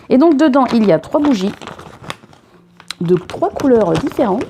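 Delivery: a light southern French twang, sing-song; southern French accent. Pretend. Unboxing candles in a southern French accent. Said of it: "Pourquoi je prends un accent du sud?".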